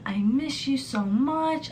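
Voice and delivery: drawn-out mocking lovesick whisper; mock clingy whisper. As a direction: whisper it like a needy sweet-talker. Mocking clingy boyfriend's texts.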